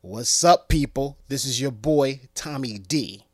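loud hype intro, name corrected; host intro retake. Acted. Host retrying the intro, loud hype. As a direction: announce it again, cleanly. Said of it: "gonna try that again".

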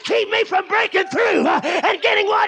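shouted, high-pitched preaching climax, building fervour; preaching at full force. Acted. Preacher rallying the church to break through, shouting. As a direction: drive it home to the congregation, full voice.

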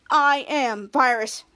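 low, slow robotic villain drone; slow low monotone computer virus; menacing virus voice. Acted. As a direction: drag each word out like a cold machine. Kid retells villain virus line.

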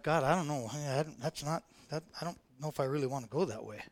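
low, soft, halting reply; acted hushed, hesitant protest; hesitant reluctance. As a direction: back away from it quietly, unsure. Acting out reluctance toward God's leading.

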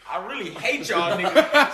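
laughing mock confession. Real, not acted. Joking confession through laughter.

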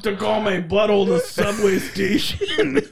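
put-on Midwestern accent sliding into Mexican; badly done Midwestern-Mexican housewife, half laughing; Midwestern turned Mexican. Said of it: "Why is she Mexican now?".

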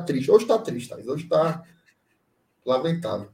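nasal, stuffed-up voice; blocked nose. Real, not acted. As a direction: talk through a blocked nose. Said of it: "tô com o nariz entupido aqui".

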